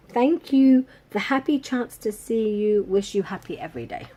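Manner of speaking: loud, high opening that settles as it goes; gushing label read-out. Acted. Vlogger reads the cute package message to viewers, gushing.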